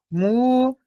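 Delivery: Mu-zi-ca split into three separate beats; spaced-out syllables in Mu-zi-ca. Shown as a demonstration. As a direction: count out Mu-zi-ca slowly, pausing after each syllable. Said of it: "claramente a separação silábica".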